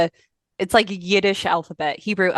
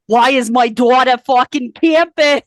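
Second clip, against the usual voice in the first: a higher, louder imitated yell of a mom; mom's yell; 5 semitones higher, 6 dB louder than usual. Retelling the friend's mom on the phone: imitated loud yell. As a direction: belt it out like an outraged mom. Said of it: "I yell it so often".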